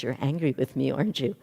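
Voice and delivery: calm teacher naming the anger. Retold or imitated. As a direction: guru calmly asking the upset disciple. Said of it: "very calmly".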